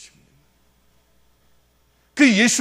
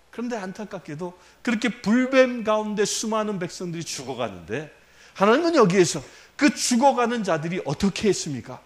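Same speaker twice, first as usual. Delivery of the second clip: ordinary talk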